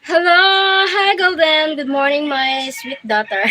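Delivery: cheerful lilting welcome; sing-song greeting. Real, not acted. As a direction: greet her sweetly.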